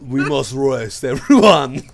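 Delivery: put-on rally the party in a silly French accent. Craucus telling the party to rest, in a silly French accent. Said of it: "As ridiculous as he sounds".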